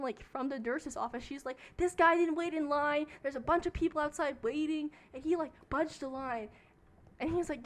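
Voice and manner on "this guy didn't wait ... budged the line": mildly raised, higher complaint; retold yelling. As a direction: imitate an outraged tattling to the nurses. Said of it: "she's, like, yelling at him".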